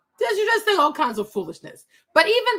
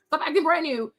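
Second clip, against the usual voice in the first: ordinary talk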